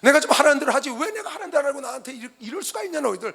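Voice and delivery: preacher voicing an aggrieved God; God remonstrating. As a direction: plead your case indignantly to your own people. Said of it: "그게 하나님이 이스라엘 백성들과 변론하는 거예요".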